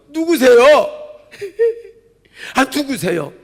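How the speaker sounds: loud, high, impatient "who is it?"; calling into the phone. Retold or imitated. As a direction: shout down the line at a silent caller. Answering a silent midnight caller. (한밤중 말없는 전화에 대고 크게 누구세요)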